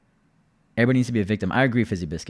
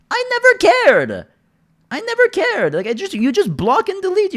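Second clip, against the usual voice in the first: defiant shout; 7 dB louder than usual. Real, not acted. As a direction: shout it out proudly.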